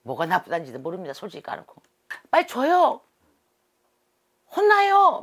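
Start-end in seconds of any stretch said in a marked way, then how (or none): 2.3-5.2 put-on very high, loud child yelling; child spirit loudly demanding. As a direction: shout like a bossy little kid who won't wait. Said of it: "얼라 소리가 나옵니다".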